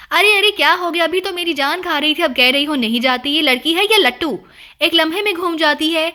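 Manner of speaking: half astonished, half annoyed exclamation; a mild mix of amazement and scolding; surprised and cross. Acted. Old mother scolding her fickle daughter, mildly surprised and cross. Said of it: "حیرت اور غصے کے ملے جلے انداز میں".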